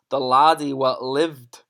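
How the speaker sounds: mock Scottish reading of the title. Shown as a demonstration. Teacher amused by the Scottish book, mock Scottish title. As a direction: read it like the Scottish edition, slow and amused. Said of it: "you're meant to read it all in a Scottish accent".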